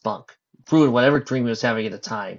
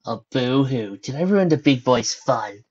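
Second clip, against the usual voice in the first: mocking; 4 dB louder, slower than usual. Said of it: "she mocked him".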